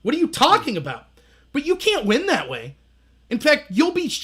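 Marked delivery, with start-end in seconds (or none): 0.0-1.1 mock indignation. Indignant reaction acted out.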